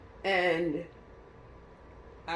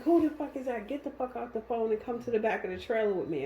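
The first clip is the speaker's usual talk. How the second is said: livid; 5 semitones higher than usual. Retold or imitated. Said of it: "He is livid".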